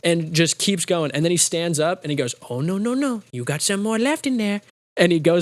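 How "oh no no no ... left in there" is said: higher, sing-song comic taunt; Adam Sandler impression. Movie hero standing over paused boss, high mock taunt. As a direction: tease it out in a raised put-on voice. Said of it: "That's a great impression".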